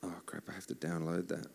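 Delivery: whispered aside. Real, not acted. Musician muttering to himself while finding lyrics, whispered. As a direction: whisper it to yourself.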